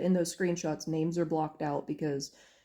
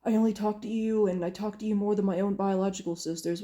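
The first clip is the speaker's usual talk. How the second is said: higher-pitched, lightly imitated tearful plea; a hint of put-on weepiness, pitched up; mock crying; 3 semitones higher than usual. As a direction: imitate someone pleading through tears, without real sobs. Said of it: "He was hyperventilating and crying and being like".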